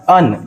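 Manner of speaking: an said with a short uh, as un. Shown as a demonstration. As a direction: say an as a quick un. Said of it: "सही क्या है?". (an को अन बोलें)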